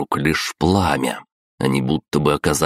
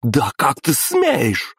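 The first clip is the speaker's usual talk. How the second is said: медленный высокий гневный окрик; грозно рявкнуть, растягивая слова; рявкнула императрица; 11 semitones higher, slower than usual. A narrator's reading. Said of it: "рявкнула императрица". (разгневанная императрица рявкает)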